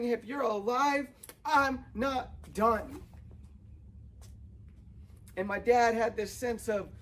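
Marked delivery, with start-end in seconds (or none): 0.0-3.0 slow, weighty promise from God, a touch raised; voicing God, reassuring. Preacher voicing God to viewers who messed up, slow and firm. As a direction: lean in and stretch out "I'm not done". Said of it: "But God's saying".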